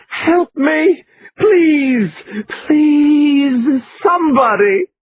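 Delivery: very high, crying pleas for help; frantic crying cry for help, pitched far up; hysterical wailing. A narrator's reading. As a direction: wail it out in panic. Laura panics, wailing.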